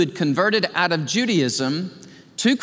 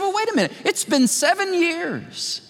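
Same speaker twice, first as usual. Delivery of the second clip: imagined listener; 9 semitones higher than usual. Retold or imitated. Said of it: "you say".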